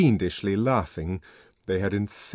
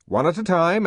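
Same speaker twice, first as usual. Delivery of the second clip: spoken order; 9 semitones higher, 6 dB louder than usual. A narrator's reading. Order then narration echo.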